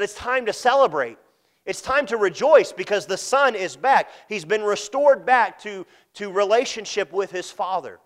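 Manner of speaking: thrilled father. Retold or imitated. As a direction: announce the celebration with joy. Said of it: "He was thrilled".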